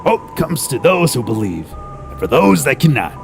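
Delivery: theatrical, measured recitation of an inscription; famous writer's words. Acted. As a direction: declaim it grandly, easing down at the close.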